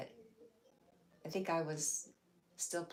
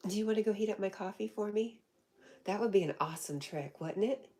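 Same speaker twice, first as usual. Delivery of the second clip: talking to a pet; 4 semitones higher, 5 dB louder than usual. Real, not acted. Talking to her dog.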